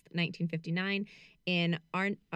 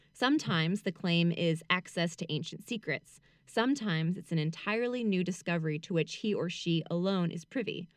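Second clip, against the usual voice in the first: reading aloud. A narrator's reading. Reads book excerpt aloud.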